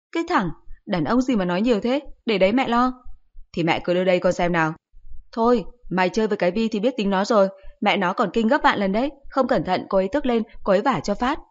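lecturing mother. Acted.

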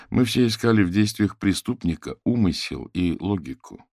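plain reading voice

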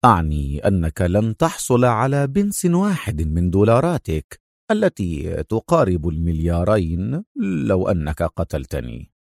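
cool, understated taunt; mocking defiance, sinking low at the end; defiant and sarcastic. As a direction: challenge him with dry mockery. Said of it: "لهجة تنطوي على التحدي والسخرية".

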